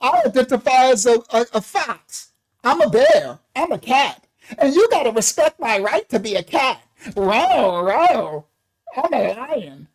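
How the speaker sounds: 1 mocking kids. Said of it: "the kids can say".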